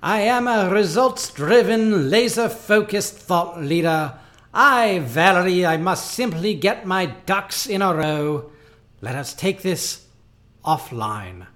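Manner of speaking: high, loud pleading Shakespearean actor; hammy stage actor. Acted. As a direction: beg like a tragic stage hero. Dingus pleading memo.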